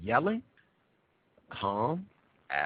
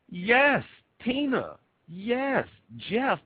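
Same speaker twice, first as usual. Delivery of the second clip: mock yes; 10 semitones higher, much slower than usual. Mock answer to his own question.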